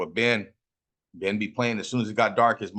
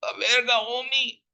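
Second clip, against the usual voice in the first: high-pitched; 13 semitones higher than usual. Acted. Repeats catchphrase two ways.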